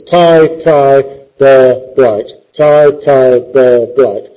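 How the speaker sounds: "Tai, tai, ber, bright" chanted with each beat hit hard; beating out the meter. Shown as a demonstration. Teacher to class, chanting the beats of "Tai, tai, ber, bright". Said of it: "four stressed syllables".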